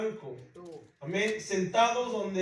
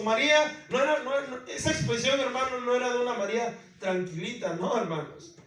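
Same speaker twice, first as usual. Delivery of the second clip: raised, high, driving sermon voice; fervent preaching; 4 semitones higher, 4 dB louder, faster than usual. Acted. Pastor urging the congregation about María, fervent and fast.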